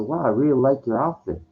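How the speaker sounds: friendly, upbeat compliment, lightly retold; mildly cheerful praise as he retold it; positive tone. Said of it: "I said it like that, in that positive kind of tone".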